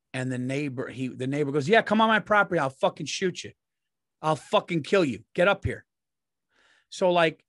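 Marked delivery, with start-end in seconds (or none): 1.7-5.9 retold angry threat. Neighbor daring a man onto his property, retold threat. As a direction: call him out with mild acted aggression.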